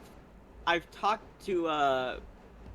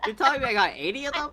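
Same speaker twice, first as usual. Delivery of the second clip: fast meme repeat; 8 semitones higher, 4 dB louder, much faster than usual. Pretend. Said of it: "meme quote repeated faster".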